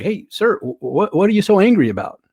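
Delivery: single out someone at the back, play-acting; calling out a heckler. Acting a speaker confronting an audience member.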